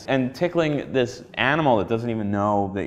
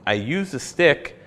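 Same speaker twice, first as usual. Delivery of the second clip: cheesy sales pitch voice; infomercial pitch. Acted. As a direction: sell it like a late-night ad. Mock infomercial for a product.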